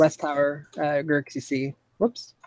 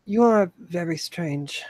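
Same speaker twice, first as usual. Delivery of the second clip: slow character voice; 3 semitones higher, slower than usual. Acted. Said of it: "He says".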